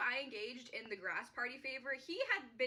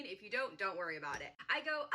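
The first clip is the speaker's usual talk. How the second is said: normal talking voice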